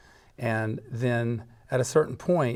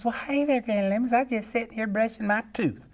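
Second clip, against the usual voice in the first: put-on high, folksy young woman voice; hammed-up hillbilly girl; young lady; 9 semitones higher than usual. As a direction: sing it out sweet and countrified. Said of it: "And she says".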